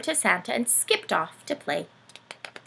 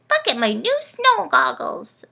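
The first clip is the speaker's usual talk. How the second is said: higher, louder excited cry; shrieking; 7 semitones higher, 6 dB louder than usual. Acted. Rory showing his goggles, excited cry. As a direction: show off the goggles. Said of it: "shrieked Rory".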